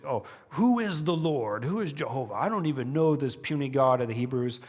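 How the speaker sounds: lightly voiced boastful ruler; a touch of scornful bragging. Pharaoh dismissing the God of the Hebrews, mildly boastful. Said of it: "before he'd boasted".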